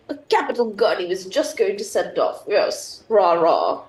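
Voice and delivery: lightly put-on blustering officer; mock his hearty bluster; pompous gent voice. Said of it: "Can't believe that's how he talks".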